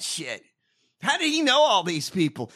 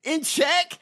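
mocking shout; 6 semitones higher, slower than usual. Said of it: "And Gillibrand".

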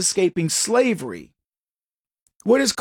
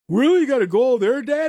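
imitating son; 5 semitones higher, faster than usual. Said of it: "And he's like".

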